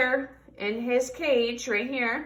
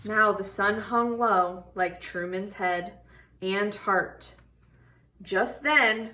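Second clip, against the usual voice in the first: expressive picture-book read-aloud; reading to children; 3 semitones lower, slower than usual. Acted. Teacher reading a tortoise story to children, expressive. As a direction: tell the story warmly to a class.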